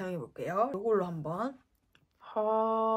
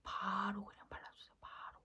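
whisper; 14 dB quieter than usual. Real, not acted. Makeup tutorial whispered asides.

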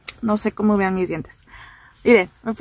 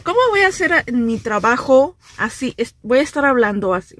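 talking with new braces elastics. Real, not acted. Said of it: "escucho mi voz y me da risa".

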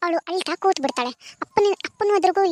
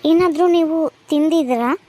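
calm doctor greeting the patient; doctor asking; 3 semitones lower than usual. Acted. (ವೈದ್ಯರ ಧ್ವನಿ)

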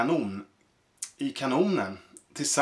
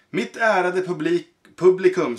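circus director; 4 semitones higher, 5 dB louder than usual. Acted. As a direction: announce it like a ringmaster to the crowd. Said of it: "sa han".

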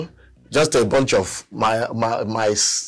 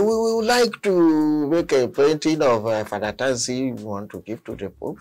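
put-on priest's Nigerian accent; 4 semitones higher than usual. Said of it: "his accent".

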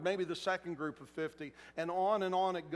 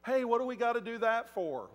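complaining crowd member; 5 semitones higher, 4 dB louder than usual. Acted. Grumbling crowd member voiced.

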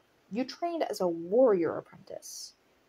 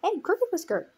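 higher-pitched call to a friend; acted hail, pitched up; 10 semitones higher, 4 dB louder than usual. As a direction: call the name out, a bit louder. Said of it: "Cloudfrost called him".

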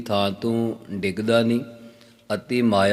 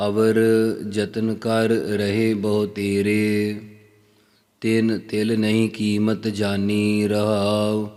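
slow, drawn-out verse reading; scripture recitation; slower than usual. Acted. Teacher reciting a Gurbani verse to listeners, slow recitation. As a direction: recite the line slowly, stretching the endings.

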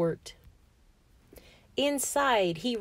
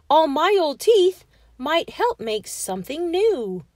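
loud, raised storybook excitement; excited cry; 6 semitones higher, 6 dB louder than usual. A narrator's reading. George plans to reuse his old teeth, crying out. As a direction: cry it out as a sudden brainwave. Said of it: "he cried".

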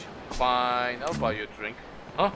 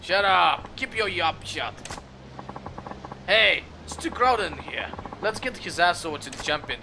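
loud thug barking orders; angry shout; 6 semitones higher, 4 dB louder than usual. Acted. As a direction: yell them down, rough. Thugs shout at the crowd.

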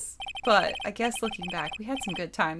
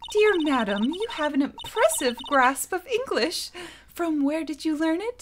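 formal gentleman; 6 semitones higher than usual. Acted. Voicing a posh character.

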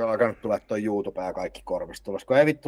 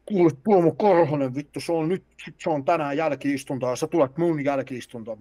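higher, louder stern teacher voice; yelling teacher; 6 semitones higher, 3 dB louder than usual. Retold or imitated. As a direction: scold him into detention. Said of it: "se huutaa mulle vaan tälleen". (vihainen opettaja huutaa oppilaalle)

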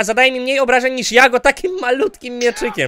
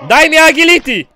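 high, raised-voice plea; loud gamer demand; 6 semitones higher, 7 dB louder than usual. Real, not acted. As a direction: call out insistently at the game. Demanding points from the game.

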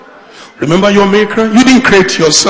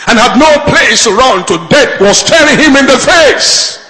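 raised, driving sermon delivery; preaching; 5 semitones higher than usual. Acted. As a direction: preach it with rising urgency. Preaches at full force.

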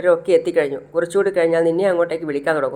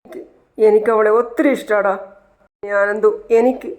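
choked, pitched-up tearful plea; mock sob, higher and strained; crying; 4 semitones higher than usual. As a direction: voice breaking as he admits it. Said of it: "എന്ന് പറഞ്ഞ് കരയാണ്".

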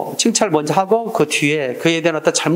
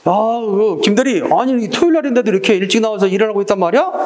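lightly acted impressed boss, a bit higher; boss praising; 4 semitones higher than usual. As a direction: act pleasantly amazed at an employee. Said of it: "칭찬했지?".

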